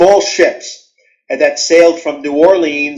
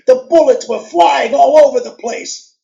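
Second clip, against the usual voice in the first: high, theatrical storytelling voice; dramatic gangster story reading; 7 semitones higher than usual. Retold or imitated. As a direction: act it out like a radio thriller. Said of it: "I acted it".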